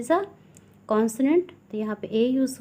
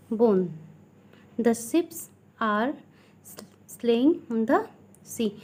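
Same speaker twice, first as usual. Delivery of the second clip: slow, deliberate classroom reading; teacher slowly dictating from a textbook; textbook read-aloud; much slower than usual. Acted. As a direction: read it out word by word for pupils. Reads rules and examples aloud.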